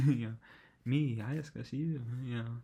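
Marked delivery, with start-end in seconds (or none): 0.8-2.0 slow, loud, offended repeat; indignant outburst. Retold or imitated. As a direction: stress ME, appalled at the nerve. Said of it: "she was not having that".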